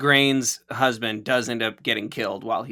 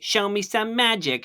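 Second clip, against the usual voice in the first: put-on lisping girl; 7 semitones higher than usual. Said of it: "cute little speech impediment".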